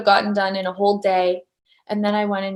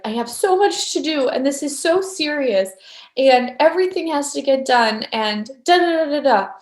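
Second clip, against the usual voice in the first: higher, mock-stressed rundown; overwhelmed; 4 semitones higher than usual. Speaker mimicking her old morning self, mildly overwhelmed. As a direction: rattle off your worries, lightly hammed-up.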